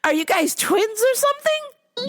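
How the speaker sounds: high snooty mock voice; mocking the lady. Repeating the customer's twins question, high and snooty.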